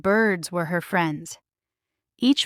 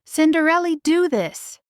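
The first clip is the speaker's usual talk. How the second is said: mimicking stepmother; 8 semitones higher, 3 dB louder than usual. A narrator's reading. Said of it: "Jack said".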